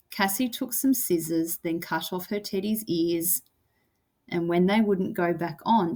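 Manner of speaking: rhythmic verse, easing down on "eye", "ears" and "tears"; falling line endings. Shown as a demonstration. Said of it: "Kinda goes down".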